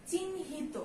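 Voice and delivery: চিহ্নিত said as chinhito with an o after t; চিহ্নিত as chinhito for students; model pronunciation. Shown as a demonstration. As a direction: say চিহ্নিত ending in -to. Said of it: "আমরা এভাবে উচ্চারণ করি".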